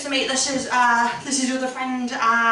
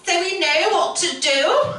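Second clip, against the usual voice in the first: mock posh, breezy reassurance, higher; gallery visitors; 4 semitones higher than usual. Comic mocking careless gallery visitors. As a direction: airily reassure like a know-it-all visitor. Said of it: "they're like".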